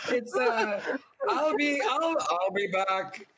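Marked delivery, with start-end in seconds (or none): 1.3-3.3 slow, mock Terminator voice; a half-hearted Terminator catchphrase; Terminator impression. Shown as a demonstration. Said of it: "that was Terminator and Schwarzenegger".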